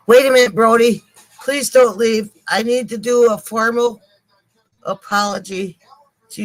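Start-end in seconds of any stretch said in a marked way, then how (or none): 0.1-2.3 calling out. Real, not acted. Calling out to leaving viewer.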